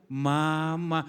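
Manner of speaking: drawn-out, measured word; mother's teaching tone. Acted. Preacher recalling mother's lesson, drawn-out teaching tone. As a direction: show how a mother models it. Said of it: "Nadanya diajari mamamu".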